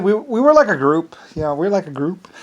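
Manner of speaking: lilting put-on Irish, starting high; mock Irish accent. Poking fun at the Irishmen, mock Irish accent. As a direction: playfully imitate an Irish accent. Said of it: "make fun of the Irishmen".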